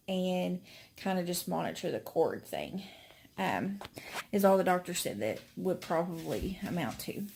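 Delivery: breathless, short of air; out of breath. Real, not acted. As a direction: talk while winded. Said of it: "Sorry, I'm out of breath".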